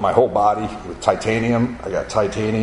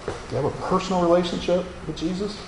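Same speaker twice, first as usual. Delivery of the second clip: pressing question; 8 semitones higher, 6 dB quieter, faster than usual. Retold or imitated.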